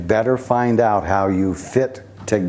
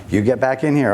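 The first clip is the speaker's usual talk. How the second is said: lightly acted scolding parent, higher pitch; scolding mom; 5 semitones higher, faster than usual. Mother calling child back inside, lightly acted scolding. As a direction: call the kid back in, mildly cross and raised in pitch.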